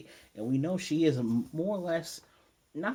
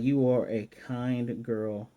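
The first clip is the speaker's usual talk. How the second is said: acted praise; much slower than usual. Retelling Kagome's praise of girl.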